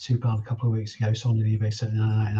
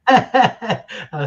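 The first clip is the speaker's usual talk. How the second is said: wild rambling cackles; 10 semitones higher, 6 dB louder than usual. Real, not acted. Laughs at friend's farmer act.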